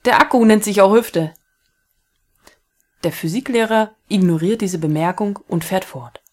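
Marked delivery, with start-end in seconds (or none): 0.1-1.3 laughing. Acted. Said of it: "sagt lachend".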